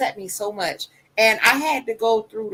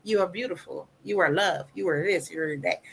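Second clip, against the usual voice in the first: affirming; 4 dB quieter than usual. Retold or imitated.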